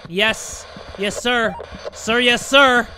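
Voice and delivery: rising yes sir; mock soldier. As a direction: salute the guard.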